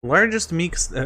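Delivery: trying to read "Largest meat" before cracking up; reading cut off by a laugh; breaking into laughter. Real, not acted. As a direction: start reading, lose it on "meat". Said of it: "I can't say that without laughing".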